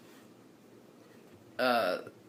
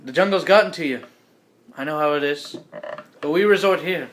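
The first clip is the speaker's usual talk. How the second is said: lightly put-on British host, raised; British host, lightly accented; 2 semitones higher, 5 dB louder than usual. Main man explaining to his guest, light British accent. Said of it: "the main dude's like".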